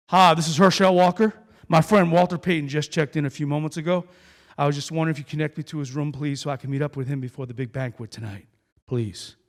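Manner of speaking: loud, confident fake-caller voice on the phone; posing as Herschel Walker. Teen pretending to be a star to the hotel desk, loud and confident. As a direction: boom it out like you're a football star calling the front desk. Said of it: "what Herschel Walker sounds like".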